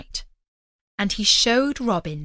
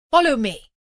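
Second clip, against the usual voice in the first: louder, higher summons; commanding call; 5 semitones higher, 6 dB louder than usual. Acted. Knight ordering the freed peasant to follow, loud. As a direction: call him to come along.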